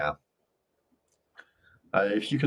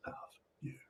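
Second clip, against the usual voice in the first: tender I love you; 7 semitones lower, 18 dB quieter than usual. Shown as a demonstration. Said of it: "Check both sides and say".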